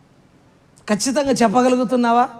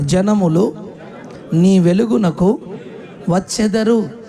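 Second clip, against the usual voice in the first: call and response; 2 semitones lower, slower than usual. Shown as a demonstration. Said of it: "నాతో కలిసి అందరూ చెప్పండి".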